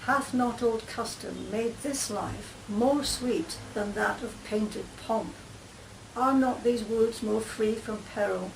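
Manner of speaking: reading Shakespeare aloud. Acted. Claire reads the banished Duke's speech to her friends, in an even recital. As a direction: read the Duke's lines like a stage speech.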